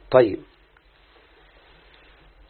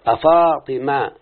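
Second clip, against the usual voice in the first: drawn out, every syllable clear; slow teaching example; slow demo; much slower than usual. Shown as a demonstration. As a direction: spell the name out slowly for students. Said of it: "ده حرف النداء للقريب".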